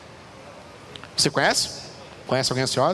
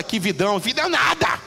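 put-on whiny child; 2 semitones higher than usual. Child complaining, voiced by preacher.

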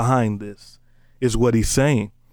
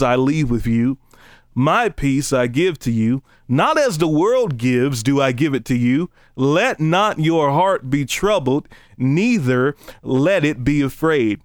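slow, measured Bible reading; solemnly paced scripture recitation. Acted. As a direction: read the verse out deliberately, phrase by phrase. Reads scripture aloud.

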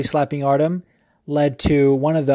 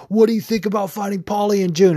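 higher, lightly voiced reporter question; interviewer voice; 5 semitones higher than usual. Podcaster voices the interviewer asking Artem about Paulie, slightly higher. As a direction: ask it like a post-fight interviewer. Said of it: "But they're like".

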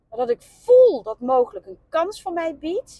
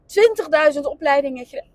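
hiccuping mid-sentence; with hiccups; 4 dB louder, faster than usual. Real, not acted. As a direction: talk through the hiccups. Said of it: "Pardon, ik heb de hik". (met de hik)

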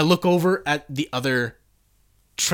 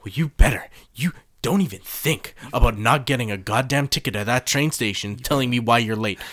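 mock boss rant; 4 dB louder than usual. Company boss then angry worker.

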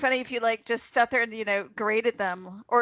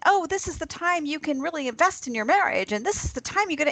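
upbeat mock cheer; 6 semitones higher than usual. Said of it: "are very, you know, upbeat and".

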